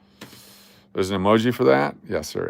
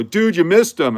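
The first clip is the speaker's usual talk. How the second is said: mock viewer complaint; 7 semitones higher, 7 dB louder than usual. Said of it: "you go".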